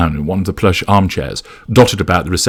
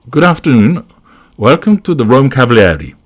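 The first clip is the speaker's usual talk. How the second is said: higher-pitched receptionist greeting; smiling welcome; 6 semitones higher, 4 dB louder than usual. A narrator's reading. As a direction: greet guests with a professional smile. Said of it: "smiles the receptionist".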